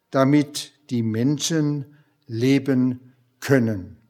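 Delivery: measured, earnest Bible reading with slowed key words; preacher reading John six aloud; scripture reading. Acted. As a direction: read Jesus' words solemnly to the congregation. Reads Jesus' answer from John 6.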